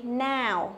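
"Now" with a full A-to-U glide; open, then round the vowel of "Now"; ao diphthong. Shown as a demonstration. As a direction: model "Now" with a gliding ao. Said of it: "Âm ao".

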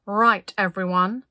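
loud, slow call to the group; leader giving orders. A narrator's reading. Linda instructing everyone at the lake edge, calling out. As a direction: address the whole group, loud and drawn out.

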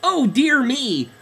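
slow, high frightened moan; terrified moan. Acted. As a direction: moan it in terror. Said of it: "moaned a now terrified duckling".

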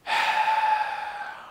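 long, voiceless sigh; exasperated sigh. Real, not acted. Player watching counties burn, exasperated sigh. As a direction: let out a heavy breath. Exasperated as game goes badly.

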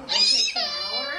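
crying laughter. Real, not acted.

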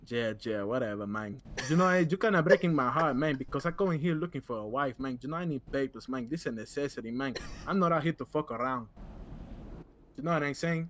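lightly put-on Latino accent; mild hammed-up Latino accent. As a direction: talk it through a Spanish-flavored accent. You laughing at my accent.

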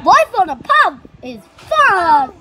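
nerd voice. Pretend. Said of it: "That's my nerd voice".

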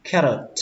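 carrot with "eh" and a released t; third pronunciation. Shown as a demonstration. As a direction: say "carrot" as KHEH-rot, ending on t. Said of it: "Cách thứ ba các bạn đọc là".

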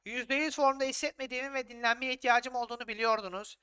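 lightly voiced upset player; reading player's complaint. Manager reads out the unhappy player's message in a mildly whiny voice. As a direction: read the message like a sulky footballer. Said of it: "Ne diyor Brown?".

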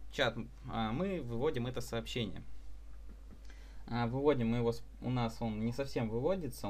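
ordinary talk, nothing marked

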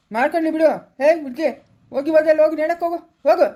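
rapid, irritated goading; angry dismissal. Acted. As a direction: drive her off with fast, angry words. Acted angry dismissal of the girl. (ಸಿಟ್ಟಿನಿಂದ ಅಟ್ಟುವುದು)

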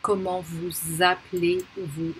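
Comment vous appelez-vous with Z linking vous to appelez; liaison Z. Shown as a demonstration. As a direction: link vous appelez as "voo-zah-play", final S silent. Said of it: "pronounced as a liaison".

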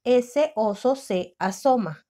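measured final reading; slow reread. Shown as a demonstration. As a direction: read it back slowly.

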